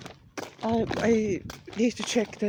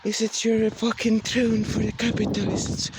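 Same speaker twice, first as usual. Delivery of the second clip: preachy rant; 4 dB louder than usual. Acted. Loud fashion rant.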